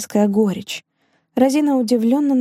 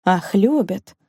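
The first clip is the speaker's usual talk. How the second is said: пренебрежительно; slower than usual. A narrator's reading. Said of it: "пренебрежительно махнув рукой".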